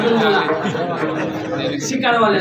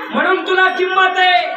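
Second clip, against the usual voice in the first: mild quarrel; 8 semitones higher, 5 dB louder than usual. Acted. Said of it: "देव म्हणले".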